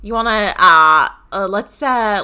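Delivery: mock Australian accent. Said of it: "that's kind of New Zealand?".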